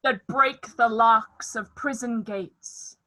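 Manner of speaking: slow, loud booming rant; lofty tyrant ranting. Acted. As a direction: declaim like a raging tyrant. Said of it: "This was lofty".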